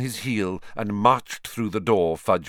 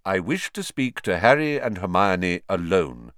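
repeated firmly. Acted. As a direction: repeat it steadily. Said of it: "Dumbledore repeated".

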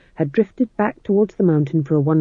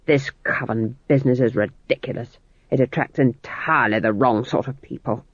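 low menace; 4 semitones lower than usual. Acted. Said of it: "voices came in low and full of menace".

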